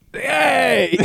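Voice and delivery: high odd hey; a high strange greeting; crazy regular's hey. Retold or imitated. Regular customer greeting staff, high odd hey. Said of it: "He's like".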